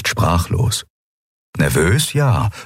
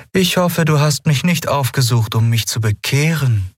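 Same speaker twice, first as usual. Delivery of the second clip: raised voice with a dry cynical edge; mildly cynical Aylan; cynical undertone; 8 semitones higher than usual. A narrator's reading. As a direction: let a little sarcasm slip in. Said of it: "Ein zynischer Unterton lag in Aylans Stimme".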